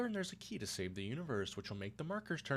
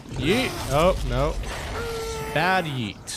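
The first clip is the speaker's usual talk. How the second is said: playful yeet; 3 semitones higher, 11 dB louder, much slower than usual. Real, not acted. Jumping off cliff.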